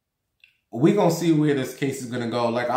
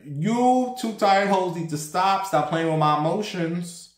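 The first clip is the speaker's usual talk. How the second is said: exasperated; 5 semitones higher than usual. Retold or imitated. Quarrel with cousin and mother.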